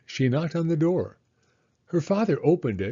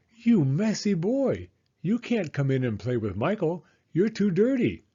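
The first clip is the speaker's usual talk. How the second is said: scolding mother; 5 semitones higher than usual. Acted. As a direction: shoo the dirty kid away. Mother scolds unrecognised son.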